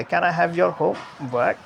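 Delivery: slow question, "homework" up on "home", down on "work"; rise-fall on homework. Shown as a demonstration. Teacher asking as Miss for students to notice, rise-fall on "homework". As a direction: hold "Can I have your" level, then bend "homework" up and down. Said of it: "तो आप ज़रा notice कीजिए".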